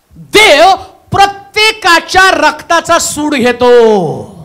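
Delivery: slow, loud, high preaching shout; a preacher's slow shouted warning. Real, not acted. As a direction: thunder it out slowly to the congregation. Preacher driving home a point.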